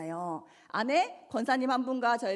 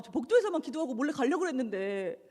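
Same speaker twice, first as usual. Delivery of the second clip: ordinary talk, nothing marked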